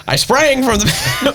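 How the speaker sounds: "sprang" pitched very high and stretched out; exaggerated emphasis. Dad obliging a request for emphasis, "sprang" high and drawn out. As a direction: overdo "sprang" slowly, as a mock-dramatic reader. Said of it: "emphasis on that word".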